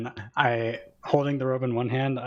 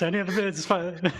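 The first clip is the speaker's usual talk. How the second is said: auctioneer; 7 semitones higher than usual. Pretend. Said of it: "I start going in an auction voice".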